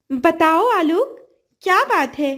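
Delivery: a grateful fish offering help; kind golden fish. Acted. Fish answers Alok's call.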